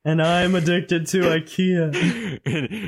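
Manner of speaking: very slow, solemn confession; drawn-out support group intro; slow mock confession.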